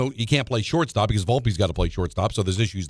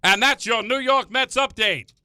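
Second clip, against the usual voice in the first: put-on high old-time newsreel narrator; old-timey voice; 7 semitones higher than usual. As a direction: read it like a vintage newsreel. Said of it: "Give me an old-timey voice".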